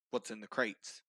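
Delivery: low, level-headed question; understated menace. Acted. Officer questions kobold, hand by sword.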